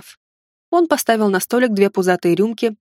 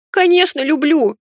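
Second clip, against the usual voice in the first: higher, tearful joyful cry; tearful sob; 6 semitones higher, 3 dB louder than usual. A narrator's reading. Lena answers Max's proposal, sobbing with joy. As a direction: blurt it through happy tears. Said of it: "всхлипнула я".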